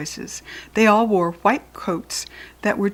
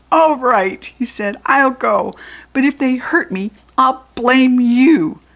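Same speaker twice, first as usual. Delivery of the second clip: grudging threat; 6 semitones higher, 7 dB louder than usual. Acted. Grudging Jack Frost agrees.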